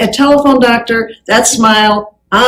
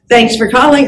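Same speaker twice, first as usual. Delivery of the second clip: phone greeting demo. Shown as a demonstration.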